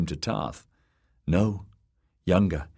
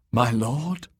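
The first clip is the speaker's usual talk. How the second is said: gasped; 6 semitones higher than usual. A narrator's reading. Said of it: "she gasped".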